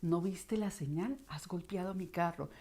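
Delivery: unnaturally civil reproach; nice, pretty voice. Acted. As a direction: ask it mildly, without any anger. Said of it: "ninguno nos suena la voz muy bonita, no se baja uno y dice".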